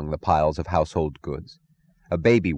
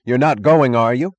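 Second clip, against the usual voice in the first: higher, louder desperate plea; desperate cry; 6 semitones higher, 7 dB louder than usual. Acted. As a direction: cry out to stop them. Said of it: "he cried to his passengers".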